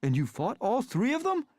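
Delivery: put-on high, breathless disbelief from a young cat; excited Smudge. A narrator's reading. Cat friend amazed Rusty fought three cats, high and excited. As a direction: gasp it out, amazed and thrilled. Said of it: "tail twitching with excitement".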